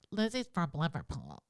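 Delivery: put-on weak, nasal Liverpool accent try. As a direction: attempt a Scouse accent. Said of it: "You can't do the English".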